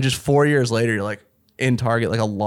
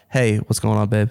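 put-on girlfriend voice; 3 semitones lower than usual. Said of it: "Pretend, pretend I just farted".

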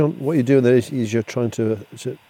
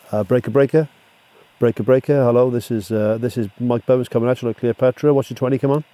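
CB radio talk; 4 dB louder than usual. Acted. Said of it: "I'm gonna use what we call the ten code".

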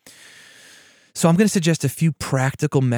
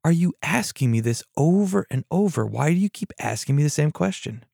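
higher-pitched, exasperated questioning; mildly irate; 4 semitones higher than usual. Acted. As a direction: act out annoyance at being asked repeatedly. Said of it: "He becomes irate and says".

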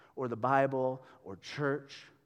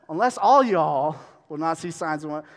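louder, playful "all y'all" reading; playful hint of Southern; louder Southern reread; 7 dB louder than usual. Shown as a demonstration. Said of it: "I like to say all y'all".

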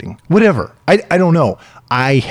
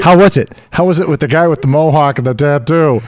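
cheery parent; 4 semitones higher, 5 dB louder than usual. Retold or imitated. Parent asks child after lesson.

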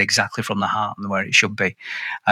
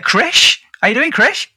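big welcome; 13 semitones higher, 3 dB louder, slower than usual. Real, not acted. Welcoming guest onto show.

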